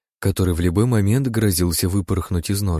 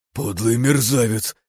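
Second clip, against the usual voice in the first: furious shout; 8 semitones higher, 4 dB louder, slower than usual. Acted. Envoy attacks in rage.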